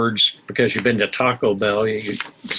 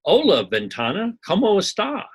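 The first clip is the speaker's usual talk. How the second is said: talking to window; 9 semitones higher than usual. Retold or imitated. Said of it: "she said".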